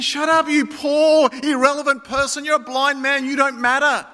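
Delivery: the crowd silencing the beggar with scorn; scornful rebuke. Retold or imitated. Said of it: "they rebuked him and told him to be quiet".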